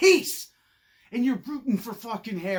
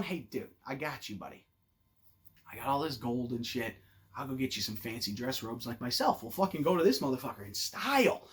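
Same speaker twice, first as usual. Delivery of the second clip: hushed, lower reassurance to a friend; kind Harry; 5 semitones lower than usual. Pretend. Imagined kind Harry comforting Ron.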